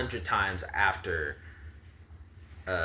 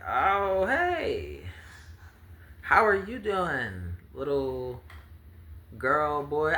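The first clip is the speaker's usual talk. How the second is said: much higher, sing-song hello; high sweet greeting; 6 semitones higher, slower than usual. Acted. GM voices promised child greeting.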